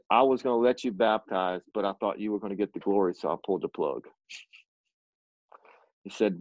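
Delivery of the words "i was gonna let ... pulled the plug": lightly voiced God, dropping much lower; low matter-of-fact retelling of God's words; God speaking.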